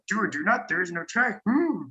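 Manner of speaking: light Yoda voice, ending in a rising hum; understated Yoda impression. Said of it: "I also do a good Yoda".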